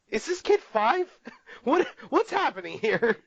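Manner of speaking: baffled, is this really happening; high disbelieving question; incredulous. Retold or imitated. Incredulous at the kid's behaviour.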